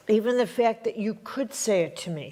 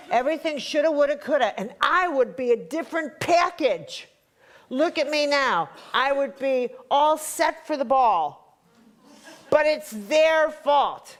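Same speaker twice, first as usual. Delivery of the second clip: mock whiny victim; 4 semitones higher than usual. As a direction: mimic someone blaming everyone else, slowing at the end. Mocking the self-pitying victim.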